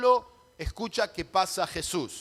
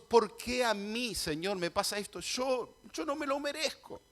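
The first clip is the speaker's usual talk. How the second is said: queja imitada; 4 semitones higher, 4 dB quieter than usual. Acted. Imita una queja a Dios.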